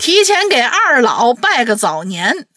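drawn-out cheerful greeting; cheerful new year wishes. Real, not acted. (欢快地拜早年)

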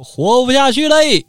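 high, long-drawn theatrical wail; hammed-up keening, stretching each phrase end; mock crying wife. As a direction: wail it out in singsong despair. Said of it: "看他媳妇儿从门口躺着打滚哭啊".

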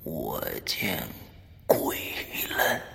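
eerie low whisper. Acted. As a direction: breathe it like a ghost story. Horror teaser, whispered.

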